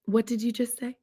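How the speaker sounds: mock alarm at her boyfriend's news; shocked disbelief. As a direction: squeak of shock jumping way up, then a stunned question. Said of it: "and I was like".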